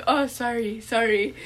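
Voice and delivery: imitated German-accented apology. Retelling the German's cramp apology, imitated German accent. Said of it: "Like, in his accent".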